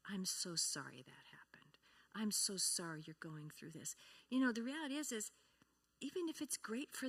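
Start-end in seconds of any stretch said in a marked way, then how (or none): 0.1-3.9 hushed, near-whispered sympathy; soft sympathy. Shown as a demonstration. Speaker comforts a grieving widow, hushed and tender. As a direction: breathe the sorry softly. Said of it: "You have to go through it".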